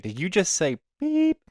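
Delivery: imitating him. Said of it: "he's like".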